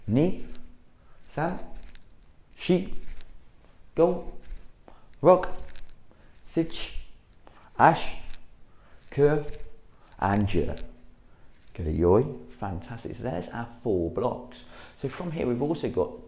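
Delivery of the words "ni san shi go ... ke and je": sharp dojo counting; called count. Shown as a demonstration. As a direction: bark each number to the class. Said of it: "a little bit quicker".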